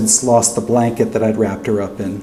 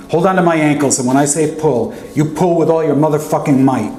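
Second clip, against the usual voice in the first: urgent commands; 4 semitones higher than usual. Acted. Uncle giving urgent orders.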